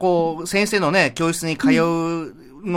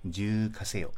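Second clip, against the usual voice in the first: cute; 6 semitones lower, 10 dB quieter, much slower than usual. Pretend. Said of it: "可愛く。".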